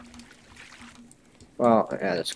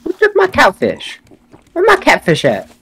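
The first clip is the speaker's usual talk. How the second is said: squeaky indignant shout; high outraged yell; 10 semitones higher than usual. Real, not acted. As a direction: shriek about the stolen catfish. Catfish stolen in game.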